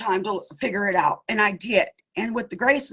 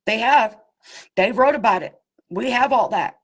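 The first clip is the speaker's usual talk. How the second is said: louder, hammering each short claim; loud insistence; 4 dB louder than usual. Real, not acted. To the FBI, about the brothers' reports: loud, insistent. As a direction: insist hard, as if no one has listened.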